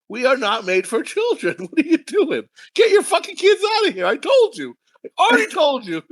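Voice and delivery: high, half-laughing exasperated protest; mock exasperation. Singer berating parents who ignored his warning, mock exasperated.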